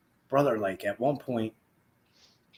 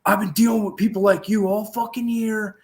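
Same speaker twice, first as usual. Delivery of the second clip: retold angry rant; 8 semitones higher, 3 dB louder than usual. Retold yelling at seat taker.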